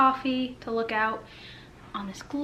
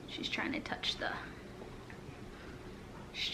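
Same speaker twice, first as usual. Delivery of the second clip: whispering; 16 dB quieter than usual. Real, not acted. Whispering aside about baby.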